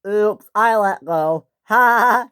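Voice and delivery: the diesel jeering at James as he lets go, loud mock laugh; gloating laugh. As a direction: taunt him and laugh as you go. Diesel mocks James and leaves.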